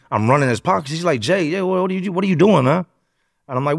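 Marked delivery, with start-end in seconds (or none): 1.2-2.8 confused friend. Retold or imitated. Friend confused being robbed.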